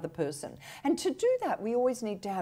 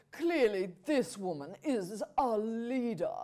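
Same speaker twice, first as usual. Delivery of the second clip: mock impressed listener. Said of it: "immediately you would say".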